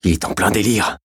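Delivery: mildly irritated complaint; exasperated grumble. A narrator's reading. Young gendarme cursing at the delirious suspect, mildly irritated. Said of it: "pesta le jeune gendarme".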